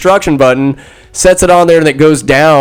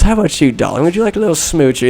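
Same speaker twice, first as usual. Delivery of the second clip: cooing to camel; 4 dB quieter, faster than usual. Retold or imitated. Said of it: "goes up to the camel and goes".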